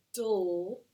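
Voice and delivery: "dull" sounded out as a lone syllable; isolated final syllable. Shown as a demonstration. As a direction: stretch "dull" out slowly. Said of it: "that's our final syllable that we're hearing".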